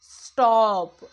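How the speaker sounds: "స్టాప్" loud and drawn out; consonant cluster demo. Shown as a demonstration. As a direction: stretch "స్టాప్" so each sound shows. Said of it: "ఎస్ వచ్చింది". ("స్టాప్" గట్టిగా సాగదీసి)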